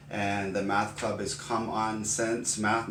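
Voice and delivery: slow, deliberate And the math club is Come On Sense Math; careful spelling out. Shown as a demonstration. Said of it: "not Common Sense".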